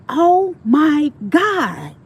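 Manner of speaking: high, loud, very slow teary "Oh my God"; tearful supervisor. Retold or imitated. Supervisor tearing up at meeting her again, high and slow. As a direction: voice the supervisor welling up. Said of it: "Do you know she started crying?".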